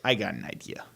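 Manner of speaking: hushed scheming whisper. Real, not acted. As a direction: lean in and whisper the plan.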